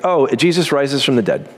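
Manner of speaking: casual throwaway, like it's nothing; mock-casual aside; offhand shrug. Shown as a demonstration. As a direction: toss it off as if it's a little thing. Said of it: "Just like".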